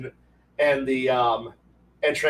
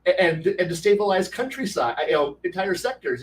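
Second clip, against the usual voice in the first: higher, emphatic retold rant; impassioned argument; 5 semitones higher than usual. Player pitching galactic war to game master, impassioned. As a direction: press the grand plan with zeal.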